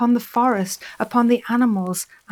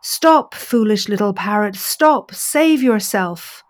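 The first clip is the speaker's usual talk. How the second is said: calling out; 5 dB louder than usual. Acted. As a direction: call down from above to stop her. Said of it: "He called out".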